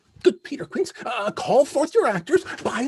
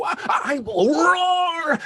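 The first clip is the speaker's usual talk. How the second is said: slow bellowing roar; 3 semitones higher, 3 dB louder, slower than usual. Acted. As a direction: roar it out like a lion. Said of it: "Let me play the lion too".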